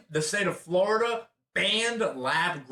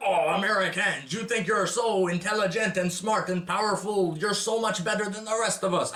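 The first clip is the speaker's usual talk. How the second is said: lightly put-on French accent mocking foreigners; a hint of a snooty French accent, teasing; quoting a foreigner in a mild French accent; 4 semitones higher than usual. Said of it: "I'm making it French".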